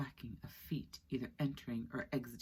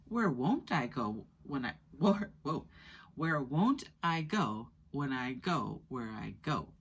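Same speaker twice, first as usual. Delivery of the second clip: tripping over a tongue twister; 4 dB louder, slower than usual. Acted. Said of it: "Flea proudly".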